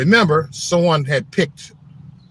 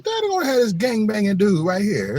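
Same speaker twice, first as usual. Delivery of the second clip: high, giggling quote; laughing while quoting; 9 semitones higher than usual. Retold or imitated. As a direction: laugh through the words. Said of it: "I said".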